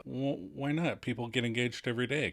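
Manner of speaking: mock defensive. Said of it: "kind of a look".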